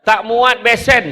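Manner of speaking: lightly voiced woman protesting; woman's reply. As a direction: act the lady from Keluang. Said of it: "perempuan kat Keluang tu jawab".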